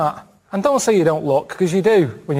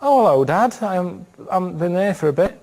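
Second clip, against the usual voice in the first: a lightly camp hello to dad, pitched up; mock camp son greeting his father; 2 semitones higher than usual. To his dad, a lightly camp hello. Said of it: "what are you talking like that for".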